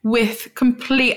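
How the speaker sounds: badly faked British accent; shite British accent. Co-host reassuring offended UK listeners, bad British accent. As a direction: put on a poor British accent. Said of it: "we have a shite".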